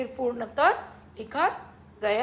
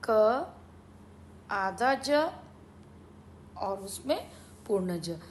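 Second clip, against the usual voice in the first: sounding out words; 2 semitones lower, slower than usual. Shown as a demonstration. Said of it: "लिखा कैसे जाएगा ब्राह्मी में?".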